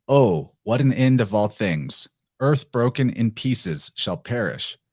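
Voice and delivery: measured, solemn recitation of verse; dramatic reading of a prophetic poem. Acted. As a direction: read it like an ancient prophecy. Reads the Sibyl's poem aloud.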